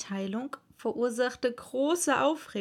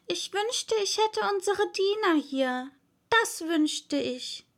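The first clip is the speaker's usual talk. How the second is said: aloud to herself; 9 semitones higher than usual. A narrator's reading. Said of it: "sagte Alice laut".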